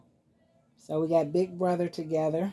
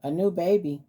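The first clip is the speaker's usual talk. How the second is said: excited pet; 3 semitones higher than usual. Pretend. Mama voicing the pet, fast and excited. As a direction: blurt out the big news.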